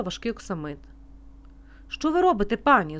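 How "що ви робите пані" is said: high, loud yelp of alarm; alarmed cry. A narrator's reading. Restaurant owner stops a guest lifting the curtain, alarmed cry. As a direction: cry out in startled protest, pitched up. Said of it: "зойкнув господар".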